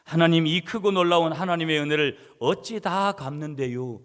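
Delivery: imitating a Chungcheong man's fervent prayer; Chungcheong dialect prayer. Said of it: "충청도 사람이니까". (간절하게 흉내 낸 충청도 사투리 기도)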